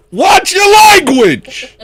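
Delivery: a light put-on Australian scolding; Australian accent. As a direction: scold like a laughing Aussie host. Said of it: "That's Australian".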